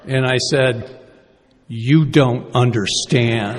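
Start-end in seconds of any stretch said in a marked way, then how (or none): 1.7-3.6 laughing protest. Retold or imitated. His own retort, laughing.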